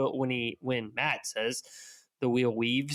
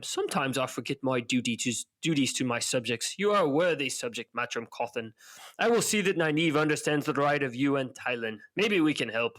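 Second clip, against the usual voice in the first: attempted Tricand accent. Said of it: "my attempt at a Tricand accent".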